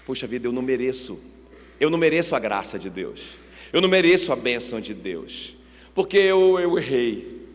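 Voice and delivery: low, downcast voice of unworthiness; dejected self-reproach. Acted. Preacher voices believers who feel unworthy, low and dejected.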